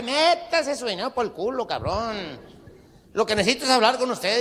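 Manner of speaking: loud, high, rude brush-off; rough loud refusal. Acted. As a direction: bark it at the compadre. Compadre rudely refuses money. (rechazo brusco y fuerte, más agudo)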